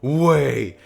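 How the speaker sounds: drawn-out amazement; amazed disbelief. Acted. Deadpool looking at his new hands, amazed. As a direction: stretch out each word in wonder.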